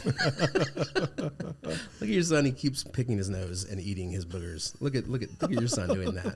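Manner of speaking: drawn-out, high, laughing "your son"; laughing mock disgust. Parent to spouse about their nose-picking son, laughing. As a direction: stretch it out through laughter, disowning the kid. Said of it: "I'll be like".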